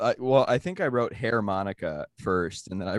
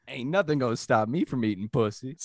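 put-on swaggering Black American accent, pitched up; imitated Black American accent; 3 semitones higher than usual. Comic performs his joke for friends, imitated Black American accent. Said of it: "you read it with a black accent".

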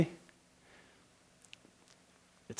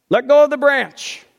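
raised, even instruction; lightly voiced God telling Jack to let go; calm divine voice; 12 semitones higher, 7 dB louder than usual. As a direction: give the order simply.

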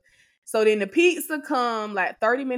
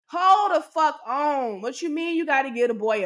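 exasperated; 5 semitones higher than usual. Real, not acted. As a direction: stop everything, irritated. Stylist stops to bathe her son.

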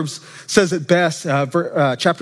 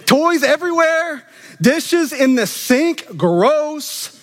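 mock gossip disgust; 9 semitones higher, much slower than usual. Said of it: "she's running through her head this narrative".

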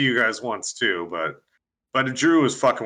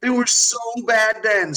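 slow, high mocking moan; self-mocking laugh; 8 semitones higher, much slower than usual. Real, not acted.

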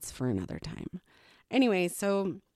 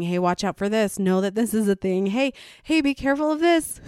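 urgent warning; 3 semitones higher, 5 dB louder than usual. Retold or imitated. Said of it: "I'm coming to you and I'm saying".

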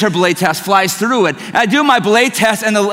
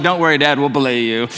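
mocking kids; 7 semitones lower than usual. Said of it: "they're just mocking me".

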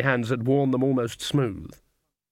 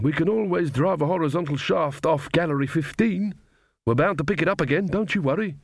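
higher, upbeat miner dwarf; cheering-up dwarf; 5 semitones higher than usual. Acted. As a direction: reassure a workmate with a lifted voice.

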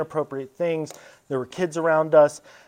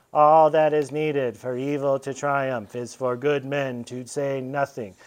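slow, measured, grave pronouncement; Father John repeating himself; 2 semitones lower, slower than usual. Retold or imitated. Priest repeating the maxim to the excuse-maker. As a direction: intone it again, slow and patient.

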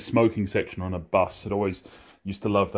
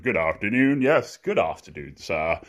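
hammed-up posh English greeting; posh English accent; 3 dB louder than usual. Returning local trying to placate the bartender, posh English accent. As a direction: put on polite, posh English. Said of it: "speak in my posh English accent".

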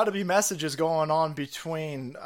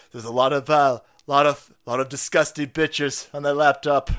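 emphatic rant; 7 dB louder than usual. Real, not acted.

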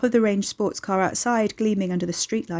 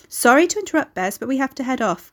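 higher, louder polite interruption; cutting in; 5 semitones higher, 4 dB louder than usual. Acted. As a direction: jump in apologetically but briskly. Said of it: "Guy cut in".

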